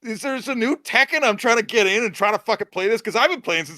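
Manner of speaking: buzzing with impatience to play; excited. Retold or imitated. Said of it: "And I was like".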